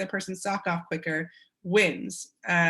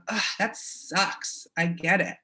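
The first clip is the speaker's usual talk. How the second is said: sympathetic ugh; slower than usual. Shown as a demonstration. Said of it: "don't underestimate the power of".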